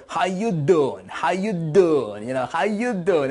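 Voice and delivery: imitated New Yorker greeting, drawn out slowly; New Yorker accent. Quoting a seminar host's greeting to everybody, in a New Yorker accent. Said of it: "he would say in the New Yorker, I guess, uh, accent".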